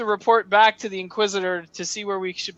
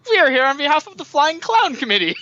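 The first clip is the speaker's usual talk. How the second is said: goofy official claim; 4 semitones higher, faster than usual. Acted. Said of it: "that's Ryan's character would say".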